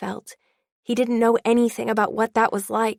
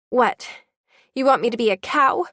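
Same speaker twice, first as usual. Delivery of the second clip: spat; 3 semitones higher than usual. Acted. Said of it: "she spat".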